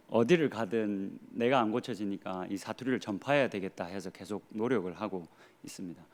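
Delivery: ordinary delivery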